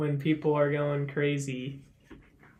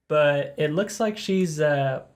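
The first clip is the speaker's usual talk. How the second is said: golf commentator. Acted. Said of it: "I don't know why you said it like that".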